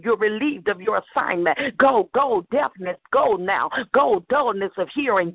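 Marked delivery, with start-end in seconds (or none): 1.8-4.2 barked order. Real, not acted. Commanding deafness to leave.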